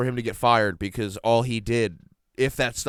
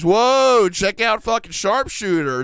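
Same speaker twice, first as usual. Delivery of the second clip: loud, high mock amazement; hammed-up "whoa" greeting; impressed boss; 6 semitones higher, 5 dB louder, slower than usual. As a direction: exclaim it loudly as if awed. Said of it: "He says".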